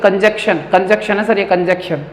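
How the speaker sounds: कंजक्शन as "kanjekshan"; pupils' wrong pronunciation. Retold or imitated. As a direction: imitate a pupil insisting on कंजक्शन without the middle N. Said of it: "कई बच्चे पढ़ते हैं". (कंजक्शन बिना न के बोलता बच्चा)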